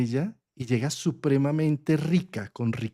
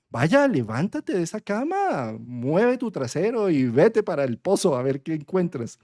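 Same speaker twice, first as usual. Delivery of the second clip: bossy stepmother; 3 semitones higher than usual. Retold or imitated. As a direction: order the lazy daughter out of bed. Madrastra manda a la hija perezosa. (madrastra mandona, voz algo más aguda y lenta)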